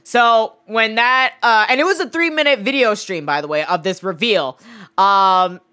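normal talking voice

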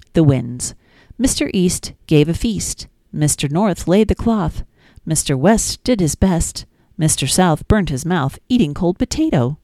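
sing-song, lilting nursery rhyme reading; gentle storytime reading; reading rhymes to children. Acted. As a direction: read it like bedtime rhymes for a toddler.

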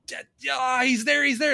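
high, loud mock shout of alarm; mock audience yell. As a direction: yell a warning at the screen like a moviegoer. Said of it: "you're yelling at the screen".

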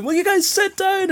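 very high, strained heckle; mock-outraged squawk; retold angry complaint. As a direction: imitate an irate fan behind you. Retold complaint from row behind.

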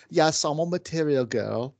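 put-on a passing British accent for a singer; mock British accent. A singer in a light mock British accent. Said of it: "I recognize that as a British accent".

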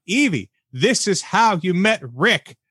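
slow, emphatic scolding; exasperated. Acted. Podcaster reading notes scolding Evie, slow exasperation. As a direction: spell it out slowly, incredulous. Exasperated rebuke of film character.

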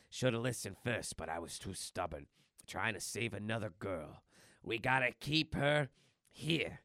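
lightly voiced gruff hero, mostly own voice; a hint of a brooding action star; Johnny Puma. Logan explaining why the kid stays, lightly gruff voice. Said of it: "turning into Johnny Puma there".

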